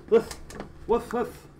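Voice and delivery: high playful woofing; imitated wolf woofs. Player turning into a wolf himself, playful imitated woofs. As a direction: woof like a pretend wolf. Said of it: "I'm turning into a wolf myself".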